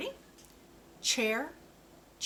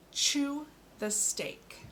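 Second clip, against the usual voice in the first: "Chew the steak" said slowly, with "Chew" lifted higher; slow model sentence; 6 semitones higher, slower than usual. Shown as a demonstration. Speech therapist models a sentence for a child, slow and bright. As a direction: lean on "Chew", then ease through the rest. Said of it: "Here we go".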